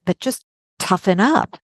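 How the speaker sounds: mock-dismissive, a touch of sarcasm; sarcastic. Mimicking what everybody thinks of the abused woman, sarcastic. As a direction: imitate an unsympathetic brush-off. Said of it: "being sarcastic".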